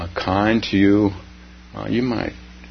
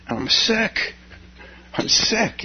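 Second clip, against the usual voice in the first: high, breathy laugh through the words; 12 semitones higher than usual. Real, not acted. Stranded traveler laughing at being sick. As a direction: laugh it off in disbelief.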